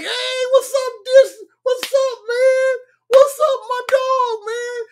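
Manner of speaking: very high, loud greeting to a buddy; high-pitched homeboy hollering hello; voice going up. Retold or imitated. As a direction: pitch it way up, hyped for your boy. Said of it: "talking about the voice go up".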